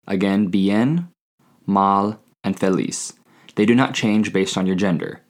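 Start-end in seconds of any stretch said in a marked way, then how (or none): 0.5-3.1 bien drawn out slowly; slow careful teacher repeat; slow model word. Shown as a demonstration. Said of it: "women and men both use bien".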